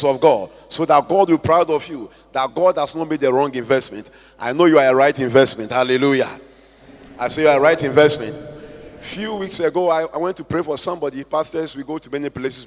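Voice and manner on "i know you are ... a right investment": declaring. Real, not acted. Preacher declaring to congregation.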